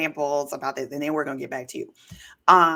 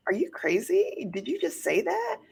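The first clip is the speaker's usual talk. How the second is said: outraged disbelief; 7 semitones higher, 3 dB quieter than usual. Retold or imitated. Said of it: "I'm just like".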